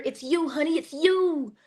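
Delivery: lightly voiced soothing mom; a hint of a mother calming her child; gentle mother. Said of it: "her mother's trying to explain to her".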